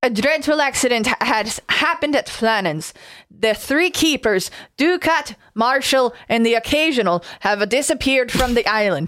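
put-on reading a telegram in a wavering Scottish-Irish accent; a light Scottish lilt drifting into Irish. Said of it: "I'm kinda flipping between Scottish and Irish".

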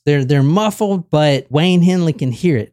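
ordinary talk

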